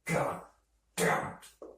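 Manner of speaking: muttered curse, partly unvoiced; muttered god damn it; under his breath. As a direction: grumble it so nobody hears. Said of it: "I say under my breath".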